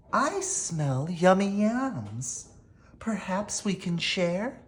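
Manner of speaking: cheerful little badger, voiced lightly. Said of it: "Badger says with a grin".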